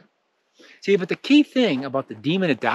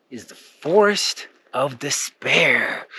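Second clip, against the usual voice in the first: ominous reveal; 2 semitones lower, slower than usual. Acted. Dramatic naming of the forest.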